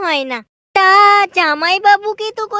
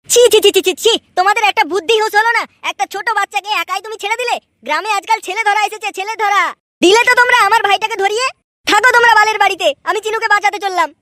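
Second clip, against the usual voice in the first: angry rapid scolding; faster than usual. Acted. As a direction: tear into them in a hurry. Scolding aunt over missing brother. (দ্রুত রাগী বকুনি)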